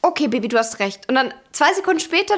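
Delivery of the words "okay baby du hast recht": nachgespieltes, beiläufiges Einlenken; lustloses Nachgeben. Retold or imitated. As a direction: ohne Lust auf Streit klein beigeben. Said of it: "weil ich keine Lust hatte". (lustlos nachgebend)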